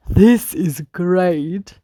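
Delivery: slow, savoured delight; beaming. A narrator's reading. Old bus beaming to himself on the road, slow delight. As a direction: glow with pleasure at the words. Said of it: "beamed J J to himself".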